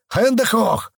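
выше, коверканный немецкий окрик; передразнить немецкий окрик; мок-крик по-немецки. Retold or imitated. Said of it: "начали орать". (пародийный немецкий окрик)

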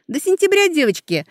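high, loud cheerful call; ringing farewell. A narrator's reading. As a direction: call out goodbye brightly. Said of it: "зазвенела девушка".

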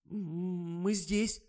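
put-on high-pitched girlish reply; girls answering in chorus. A narrator's reading. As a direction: pipe up in a high voice. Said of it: "хором отозвались долговязые".

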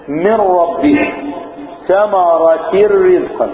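very slow drawn-out recitation; Quran recitation. Shown as a demonstration. Teacher reciting the verse as an example. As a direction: recite each word with care.

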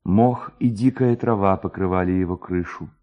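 ordinary delivery, nothing marked

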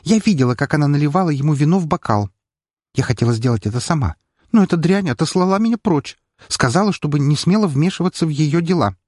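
high-pitched, agitated accusation; nearly hysterical. A narrator's reading. Maid accusing the baroness who sent her away, nearly hysterical. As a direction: pour it out, on the edge of hysteria. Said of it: "едва ли не истерично воскликнула девушка".

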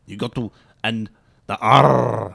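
mock Russian accent with a long R. Shown as a demonstration. Co-host coaches Jamie on the R, Russian accent. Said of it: "when you talk Russian".

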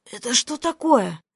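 a raspy, hushed voice gone hoarse from nerves; hoarse wheeze. A narrator's reading. Employee rasps at the boss, voice gone hoarse. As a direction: croak it out as if the voice has dropped. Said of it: "севшим от недавних переживаний голосом просипела я".

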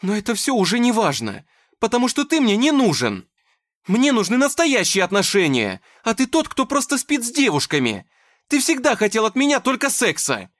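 very high, loud accusing scream; furious tearful yelling. Acted. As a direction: let the hurt explode.

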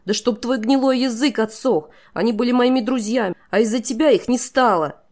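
high, loud, raging accusation; girl curses the traitor over dead friends; furious curse. A narrator's reading. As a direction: hurl it at him with hatred.

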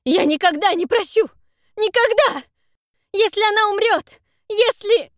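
high, loud breaking threat; anguished shout. Acted. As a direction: scream the threat in despair. Zak threatening, wife dying.

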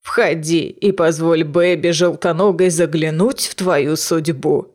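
low, slow creaking crone; old witch voice. Acted. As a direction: draw the words out like a sly hag. Witch invites Selena to fortune.

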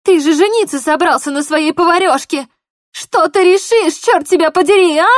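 high, loud angry crying; tearful fury. Acted. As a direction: lash out through tears. Polina sobbing in anger.

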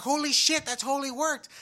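can't believe it worked; thrilled surprise at own success; excited disbelief. Retold or imitated. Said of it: "I was like".

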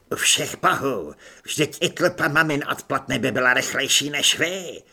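loud, pleased corporal's shout; gleeful shouting. Acted. Corporal shouting happily at fumbling recruits, loud. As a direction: bellow insults with relish. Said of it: "křičel spokojeně".

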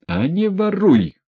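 high, choking cry of fury; angry shout. A narrator's reading. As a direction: spit it out, choking with rage. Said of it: "крикнул Ганя, чуть не захлёбываясь от злости".

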